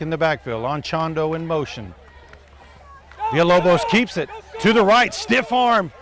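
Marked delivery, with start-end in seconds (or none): 3.3-5.9 excited play-by-play. Real, not acted. Run to first down.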